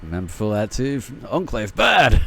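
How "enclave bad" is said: loud, blunt caveman grunt; caveman talk. Pretend. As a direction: say it like a dumb brute. Caveman-style game reference.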